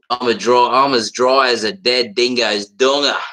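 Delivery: broad Aussie slang delivery; classic Aussie. Shown as a demonstration. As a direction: bang out a classic Aussie saying. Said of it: "that kind of classic Aussie shit".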